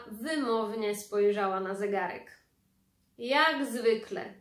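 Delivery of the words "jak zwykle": slow, louder, pointed remark; drawn-out sneer. Acted. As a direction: spell out each word with disdain. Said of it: "wycedziła". (wycedzone powoli, z przekąsem)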